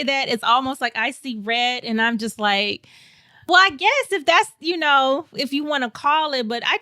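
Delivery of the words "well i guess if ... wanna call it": higher-pitched, grudging retort; mildly agitated. Retold or imitated. Answering people who call her lucky, mildly agitated. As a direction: replay your irritation, grudgingly conceding. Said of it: "agitated with that word".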